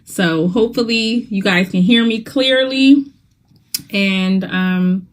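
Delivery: speaking with a numb mouth after dental work; words a little slurred from numbness. Real, not acted. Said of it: "my mouth is a little numb".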